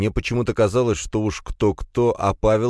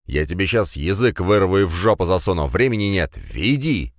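almost growling. Acted. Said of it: "почти прорычал я".

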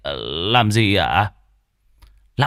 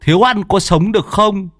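higher, mocking jab; higher-pitched old man ribbing his partner; teasing old exorcist; 8 semitones higher than usual. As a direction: needle your friend for being a hypocrite. Lão Tứ teases Tam.

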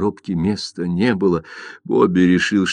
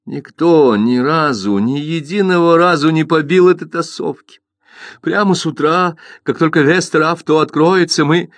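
excited; 6 semitones higher than usual. Acted. Mother excited about money.

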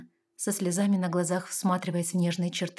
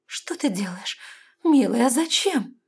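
whispered then a louder, slow alarmed question; worried mother pleading; mother alarmed as her daughter undresses; anxious; 5 semitones higher, 5 dB louder, slower than usual. A narrator's reading. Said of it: "с волнением говорила мать".

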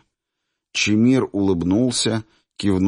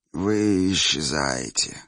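put-on old man voice; 2 semitones lower, 3 dB quieter, slower than usual. Old seer answers.

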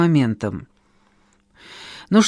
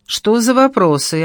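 snapping; 4 semitones higher than usual. Acted. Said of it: "окрысилась Инга".

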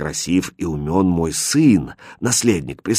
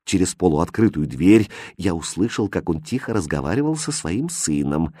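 usual speaking voice

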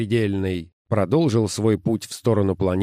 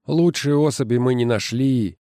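guilty; 3 semitones higher than usual. Acted. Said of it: "виновато ответил переводчик".

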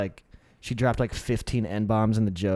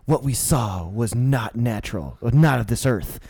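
slow, measured retold ghost-seer; imitating a grave believer, slowly; mock-solemn pronouncement; slower than usual. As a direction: draw it out like an eerie revelation. Retelling Dave's grave ghost pronouncement.

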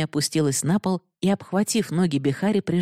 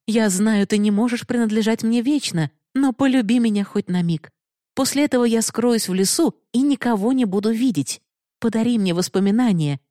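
put-on lightly raised voice of a passionate young woman; Binodini's voice; 7 semitones higher than usual. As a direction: speak as the proud, challenging heroine. (слегка повышенный голос героини)

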